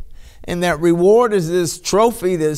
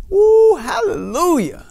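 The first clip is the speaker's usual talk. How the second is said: slow joyful cry; 11 semitones higher, 5 dB louder, slower than usual. Real, not acted. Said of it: "makes me wanna do that".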